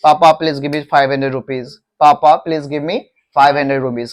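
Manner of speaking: slow, pleading request to papa; child asking papa for money, slow; slow model request. Shown as a demonstration. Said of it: "पापा से पैसा ही मांग सकते हैं".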